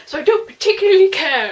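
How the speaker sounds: high, shouted comeback; loud retort. A narrator's reading. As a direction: yell back with full teenage drama. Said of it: "she retorts loudly".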